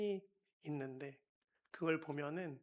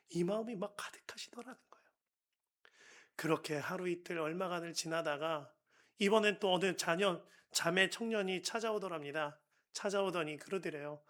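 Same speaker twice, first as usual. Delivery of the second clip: ordinary talk, nothing marked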